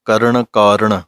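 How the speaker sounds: ਕਾਰਣ ends on a clear retroflex ਣ; careful ਣ demo. Shown as a demonstration. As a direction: sound out the ਣ in ਕਾਰਣ. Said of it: "ਕਰਨ ਅਣਾਣੇ ਦੀ ਆਵਾਜ਼ ਆਉਣੀ ਚਾਹੀਦੀ".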